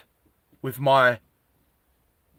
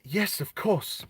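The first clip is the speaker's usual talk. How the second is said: nervous slow agreement; 4 semitones higher, 7 dB quieter, slower than usual. Retold or imitated. Mum answers the humanoid again.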